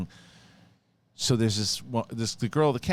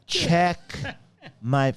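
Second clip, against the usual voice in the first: louder, higher, word-by-word demand; insistent customer; 8 semitones higher, 4 dB louder than usual. Retold or imitated. Woman demanding one more time, loud insistent imitation. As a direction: imitate the customer pressing once more, cut short. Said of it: "One more time".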